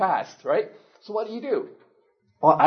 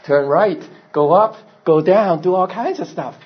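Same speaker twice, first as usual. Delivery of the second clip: excited discovery; 6 dB louder than usual. Retold or imitated. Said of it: "And then it realizes".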